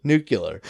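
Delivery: "Nuclear" said NOO-kyuh-ler; variant pronunciation. Shown as a demonstration. Confirming how many people say "Nuclear", NOO-kyuh-ler. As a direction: confirm "Nuclear" with a yuh, falling. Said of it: "'Cause so many people say it".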